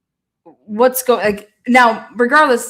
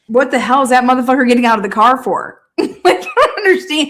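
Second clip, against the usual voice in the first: laughing disbelief; 3 dB louder, faster than usual. Real, not acted. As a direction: ride incredule che sale acuta.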